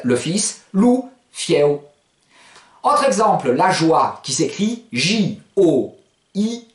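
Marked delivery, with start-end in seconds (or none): 1.3-1.8 "fieo" quick, run together as one word; said quickly. Shown as a demonstration. Teacher gives the fast version, quick "fieo". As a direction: join "fi" and "éo" without lingering. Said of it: "Si je le prononce vite".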